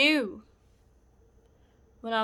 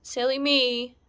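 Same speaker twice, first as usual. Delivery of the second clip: higher, louder fake cheerfulness; imitated hollow, agreeable chuckle; forced laugh; 3 semitones higher, 7 dB louder than usual. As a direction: play along with a put-on laugh. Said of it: "I forced myself to laugh too".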